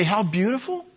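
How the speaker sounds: dripping mock admiration; sarcastic. Shown as a demonstration. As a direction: say it like you don't mean it. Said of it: "hear the sarcasm in my voice when I say".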